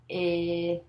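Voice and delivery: 'I' held long as the short vowel in 'sit'; single letter sound. Shown as a demonstration. Teacher sounding out for Jim, long isolated 'I'. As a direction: sound out 'I' as a level stretched 'ih'. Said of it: "say this sound".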